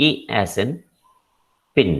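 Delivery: E kept short, as in pin; short vowel in E and pin. Shown as a demonstration. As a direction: say a brief E, then pin. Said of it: "Short E".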